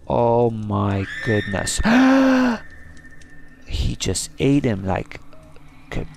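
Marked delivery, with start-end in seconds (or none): 1.8-3.5 high, shouted gasp of horror. Real, not acted. Spider eats a player.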